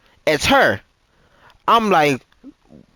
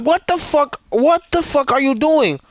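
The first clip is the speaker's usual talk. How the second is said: high, incredulous demand; retold indignant disbelief; 7 semitones higher than usual. Man recounting pushing partner away, indignant. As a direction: recreate an appalled challenge, pitched way up.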